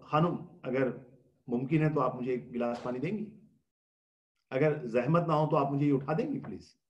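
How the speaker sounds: husband politely asking wife for water; polite, gentle request. Shown as a demonstration. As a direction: ask her kindly, as a favour. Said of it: "دیکھیے کتنا فرق پڑ گیا".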